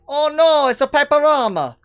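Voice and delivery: high, loud cartoon dismay; hammed-up high plumber cry; mock plumber alarm. Gamer playing Mario reacts to room, high mock alarm.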